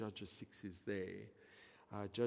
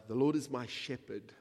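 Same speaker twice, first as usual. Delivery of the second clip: louder, declared firmly; proclaimed; 3 semitones higher, 6 dB louder than usual. Shown as a demonstration. Preacher quoting the psalm to the church, louder and bold. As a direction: announce the verse boldly.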